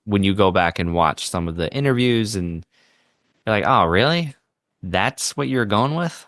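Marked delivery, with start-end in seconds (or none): 3.7-6.3 incredulous. Acted. Viewer's reaction to dated interviews.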